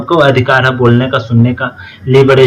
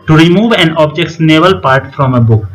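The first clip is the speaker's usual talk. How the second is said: very slow, word by word; slow, careful dictation pace; 2 semitones higher, much slower than usual. Shown as a demonstration. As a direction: read it out for students to copy down. Dictating English definition slowly.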